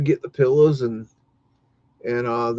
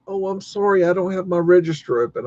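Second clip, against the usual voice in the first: mildly disappointed clerk, slightly higher; 4 semitones higher than usual. Retold or imitated. Imitating a store clerk turning a customer away, disappointed. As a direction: imitate a let-down apology. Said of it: "in a very disappointed way".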